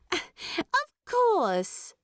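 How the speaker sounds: lightly voiced Primula, puzzled and quick; Primula's voice. Primula repeats impatiently.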